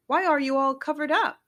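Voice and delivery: high, quick puzzled ask; puzzled question. A narrator's reading. Nat asking covered Billy, quick and puzzled. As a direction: quizzical and quick. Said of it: "asked Nat".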